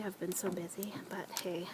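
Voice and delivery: soft whispered aside. Real, not acted. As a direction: drop to a hushed whisper.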